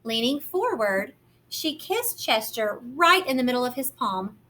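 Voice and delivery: gentle, lively picture-book narration; reading to children. A narrator's reading. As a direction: read it like storytime for little ones.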